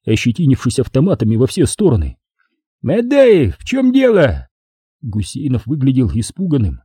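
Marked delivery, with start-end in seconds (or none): 2.8-4.5 high, urgent demand; high-pitched commander's challenge; demanding call. A narrator's reading. Commander demands answers amid a standoff.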